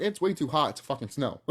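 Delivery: laughing through the comeback; giggling while quoting own retort. Retold or imitated. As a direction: laugh out the quip. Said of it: "and I'm like".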